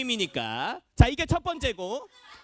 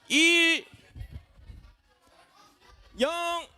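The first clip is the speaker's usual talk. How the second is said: drawn-out countdown, one number at a time; 4 semitones higher, much slower than usual. Real, not acted. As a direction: count down slowly, each number held and raised. Counting down ten seconds to the group. (카운트다운하듯 길게 끊어 세기)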